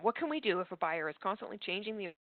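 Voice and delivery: audio cutting out; choppy broken connection; corrupted glitchy audio. Real, not acted. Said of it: "your audio is cutting out a little bit on us".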